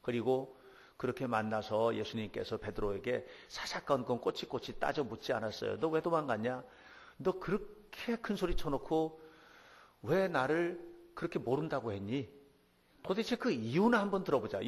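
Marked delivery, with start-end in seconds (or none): 5.8-14.7 a hint of a stern, demanding Jesus, pitched up; lightly voiced Jesus scolding Peter for running away; interrogating Jesus. The preacher lightly voices Jesus questioning Peter, mildly stern. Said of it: "뭐 이런 게 아니고요".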